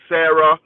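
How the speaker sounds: "Sarah" said the wrong way, with an "air" first vowel; wrong pronunciation. Shown as a demonstration. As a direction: say "Sarah" as SAIR-uh, stressed and loud. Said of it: "please spell my name right".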